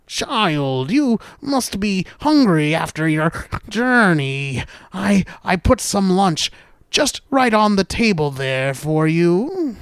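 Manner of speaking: lightly voiced disguised grandmother; halting, drawn-out invitation from the sickbed; small voice. Wolf as grandmother offering Little Red lunch, small voice. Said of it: "she heard the small voice call out".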